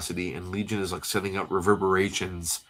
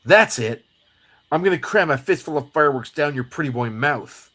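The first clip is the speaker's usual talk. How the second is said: high, hammed-up threat; fed-up comic sidekick; 5 semitones higher, 4 dB louder than usual. Jubilee threatening Gambit with fireworks, hammed-up anger. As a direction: burst out high, punching the first words.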